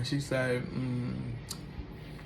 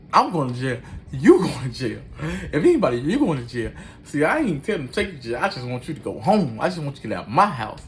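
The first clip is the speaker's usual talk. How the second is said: heated retort; 6 dB louder than usual. Retold or imitated. Arguing back at drunk sister.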